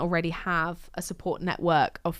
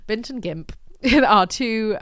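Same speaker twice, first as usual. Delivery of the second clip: laughing; 4 semitones higher, 6 dB louder, slower than usual. Real, not acted. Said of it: "made myself laugh there".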